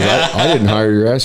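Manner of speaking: acted-out scornful foreman; irritated boss. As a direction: disown the new worker, loudly. Boss rejecting the new hand.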